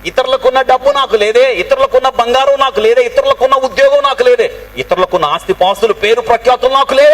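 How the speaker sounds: high-pitched, insistent lament; acted distressed complaint. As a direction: imitate someone bemoaning what they lack. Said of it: "అని ఎన్నిసార్లు బాధపడ్డావు".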